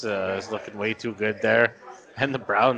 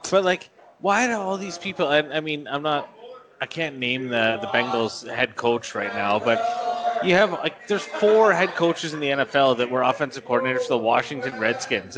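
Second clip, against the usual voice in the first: heated, higher-pitched sports rant; angry rant; 3 semitones higher than usual. Real, not acted. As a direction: vent your frustration, pitch up. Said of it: "this is a rant incoming here".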